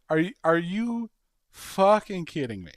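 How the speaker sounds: are you kidding me, getting heated; incredulous outrage. Real, not acted. Outraged rhetorical question.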